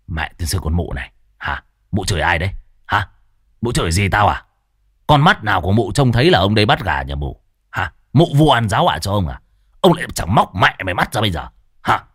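low, fast thuggish threats; snarling curse. Acted. Tuất cursing the neighbour woman back, low fast threats. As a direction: threaten her like a street thug. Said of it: "còn đánh là nó còn chửi".

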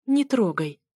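short, irritated rebuff; mildly scornful order; snorted warning. Acted. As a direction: warn them off with a huff. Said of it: "фыркнула я".

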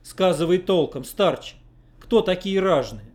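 can't hold back his indignation; indignant. Acted. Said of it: "не сдержал негодования".

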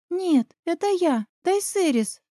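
put-on high, soft girl's voice; quiet girl. A narrator's reading. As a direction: answer softly as the granddaughter. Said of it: "тихо ответила я". (тихий девичий голос, выше)

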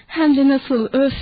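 lightly giggling with delight; a childlike gleeful burst; a touch of giddy joy; happy chuckle. Acted. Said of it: "Lenny sevinçle kıkırdadı".

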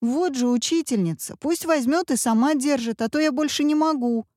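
put-on high indignant kid's complaint; indignant child. A narrator's reading. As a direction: protest like a fed-up boy. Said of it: "возмутился мальчик". (мальчик возмущается, выше)

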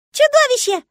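very high, loud delighted shriek; joyful squeal. Acted. Girl greeting her monster father, joyful squeal. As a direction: squeal with glee. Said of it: "взвизгнула она радостно".

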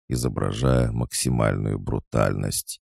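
ordinary delivery

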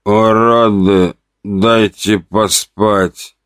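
very slow, grumpy sleepy grumble. Acted. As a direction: grumble it half asleep. Grumpy patient.

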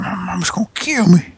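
unvoiced whispered quote; whispering. Shown as a demonstration. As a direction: breathe it out in a whisper. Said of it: "I said".

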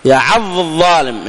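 يعض الظالم with the ض merged into the ظ; merged reading. Shown as a demonstration. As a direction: blur يعض straight into الظالم. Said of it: "يعني تدغم، لا توضح".

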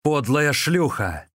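husband berating his wife, angry yell; furious yelling. A narrator's reading. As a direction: bellow at her. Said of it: "заорал".

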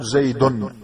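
"زيد" ending in a clearly sounded n, zaydun; final n sounded. Shown as a demonstration. Teacher showing students the hidden noon, "زيد" said zaydun with the n sounded. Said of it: "نلحظ أن هناك نون في آخر الكلمة".

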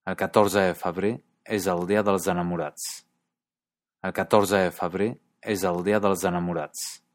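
lightly voiced Catalan sentence; Catalan accent. Shown as a demonstration. Teacher reading a Catalan sentence, light Catalan accent. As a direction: read it like a Catalan speaker, lightly. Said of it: "como en esta frase".

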